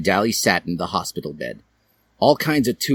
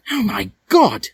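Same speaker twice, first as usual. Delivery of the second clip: Draco's voice; 13 semitones higher, 4 dB louder than usual. Acted. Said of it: "Draco said".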